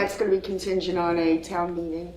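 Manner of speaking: muffled behind a face mask; talking through a mask. Real, not acted. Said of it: "Can you hear me through the mask".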